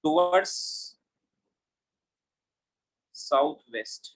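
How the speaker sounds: slow, word by word, as if writing on the board; slow dictation. Shown as a demonstration. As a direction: spell out the answer slowly for notes. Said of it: "direction के साथ अगर मैं लिखूंगा".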